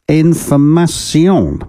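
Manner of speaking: last word in a mock French accent. Radio host reading out a book title, mock French accent. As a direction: give it a French-style drawn-out ending. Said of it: "say it in a French accent".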